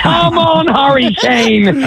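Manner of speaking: fired-up football fan cheer; excited cheer. Real, not acted. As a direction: cheer your team on, high and eager. Drunk fan cheering at match.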